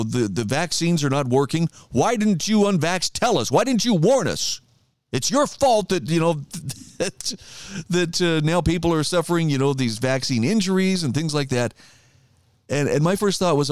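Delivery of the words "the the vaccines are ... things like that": mimicking the vaccinated blaming the unvaxxed; mocking whiny complaint. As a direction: whine the blame back like a sulking accuser.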